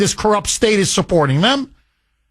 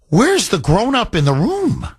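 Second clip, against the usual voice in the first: ordinary talk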